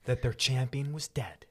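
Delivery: booming Bible-reading narration; dramatic narrator voice. Acted. Friend reading scripture aloud, in a dramatic narrator voice. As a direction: read it like an epic storyteller. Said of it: "turn off your narrator voice now".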